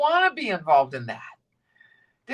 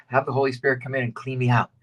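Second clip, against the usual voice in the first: quick prayer; 7 semitones lower, faster than usual. Shown as a demonstration.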